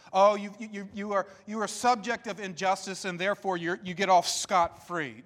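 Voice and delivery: mock pity. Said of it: "He will not allow her to play the victim".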